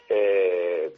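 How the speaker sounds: ordinary delivery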